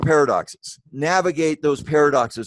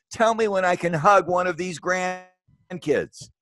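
slow, higher, voice full of longing; emotional; 6 semitones higher, slower than usual. Real, not acted. Missing hugging grandkids, slow higher emotional plea. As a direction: linger on each word, close to tears. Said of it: "oh, I'm gonna get emotional".

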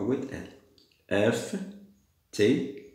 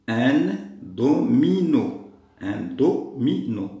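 "Un domino" higher, louder and very drawn out; syllable by syllable; 3 semitones higher, 5 dB louder, much slower than usual. Shown as a demonstration. Teacher sounding out "domino" for the missing syllable, slowly and loudly. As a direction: stretch each syllable of "domino": do, mi, no. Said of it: "لازمني un do".

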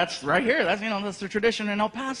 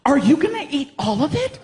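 higher, laughing mock-accusing; girlfriend voice; 5 semitones higher, 3 dB louder than usual. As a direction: tease like the girlfriend. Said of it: "girlfriend asking".

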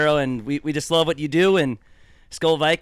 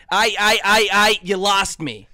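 louder, stammering mock host; Barrero impression; 4 semitones higher, 5 dB louder than usual. Coworker mocking the host with one stammered phrase. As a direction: stutter it out like the radio host. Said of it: "would always do a Barrero impression".

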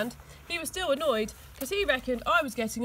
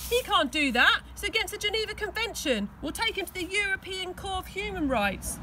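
seething; 8 semitones higher than usual. A narrator's reading. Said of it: "Tina was seething".

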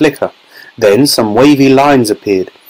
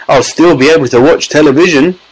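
put-on small boy's insistent squeak; squeaky tiny voice; 4 semitones higher than usual. A narrator's reading. Tiny boy insists to his parents, squeaky voice. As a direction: squeak it insistently, a little raised. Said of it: "squeaked the tiny voice".

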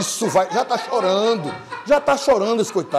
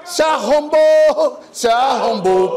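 mocking drawl; 7 semitones higher, 8 dB louder, much slower than usual. Mocking the car buyer.

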